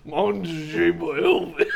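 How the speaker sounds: slow, slurred mock voice; drawn-out goofy imitation; mimicking odd voice. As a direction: mimic the friend's weird drawl. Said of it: "What the fuck was that last voice?".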